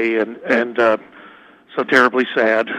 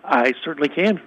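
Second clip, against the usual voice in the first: thin phone-line voice; over a landline phone; 3 semitones higher than usual. Real, not acted. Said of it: "I'm calling you on a landline".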